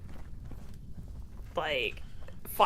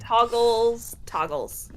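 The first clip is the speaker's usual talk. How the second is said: tipsy; 2 semitones higher, much slower than usual. Real, not acted. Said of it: "I'm a little tipsy".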